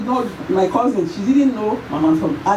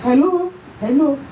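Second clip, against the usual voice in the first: calling out; 6 semitones higher than usual. Retold or imitated. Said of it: "She just threw away her phone".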